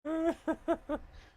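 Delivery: loud squealing laugh; real high-pitched laugh. Real, not acted. Laughs at own joke.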